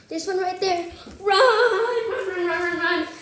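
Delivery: high, loud and fast, laughing run run; excited urging. Acted. Teacher urging listening kids, laughing and loud. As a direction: cheer them on to flee the gator.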